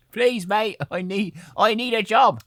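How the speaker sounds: high pleading voice; shipwrecked man pleads with the farmer, high and pleading; mock begging. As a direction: beg the farmer for work. Begging voice for a job.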